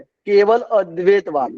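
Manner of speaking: "केवल अद्वैतवाद" slowly, the initial अ of अद्वैतवाद sounded separately; pronunciation demonstrated. Shown as a demonstration. Teacher correcting a student's reading, slow pronunciation demonstration. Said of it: "ओ लगाना है उसमें".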